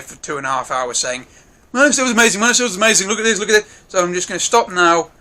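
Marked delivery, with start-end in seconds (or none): 1.7-3.7 higher, lightly hammed-up fan babble; mock gushing. Reviewer imitating himself raving for hours about the film, mock gushing. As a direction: gush on and on like a fan. Mimics own endless gushing.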